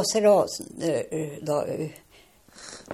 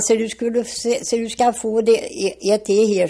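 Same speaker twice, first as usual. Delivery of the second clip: raised, higher-pitched quoted retort; heated retort; 4 semitones higher, 3 dB louder than usual. Retold or imitated. Karl to the bailiff before the slap, heated retort. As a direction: retell it louder, as a defiant comeback.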